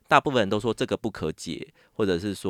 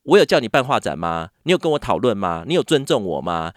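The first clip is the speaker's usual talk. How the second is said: louder, indignant questions fired at her; angry scolding; 6 dB louder than usual. Retold or imitated. Agent confronting her about the exhibitions, angry and loud. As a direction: imitate the agent snapping back in anger. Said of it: "就突然骂".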